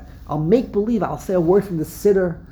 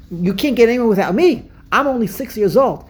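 lightly acted proud child, a bit louder; self-important child; 3 semitones higher, 4 dB louder than usual. Child interpreter boasting to adults, mildly acted self-importance. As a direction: insist like a child who matters, without a put-on voice.

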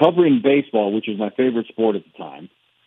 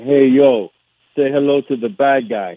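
lightly put-on Cuban accent, punchy and a bit louder on hey yo; fake Cuban accent; 2 semitones higher, 4 dB louder, slower than usual. Radio guest hamming the bad guy catchphrase, in a light fake Cuban accent. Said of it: "or the fake Cuban accent anyway".

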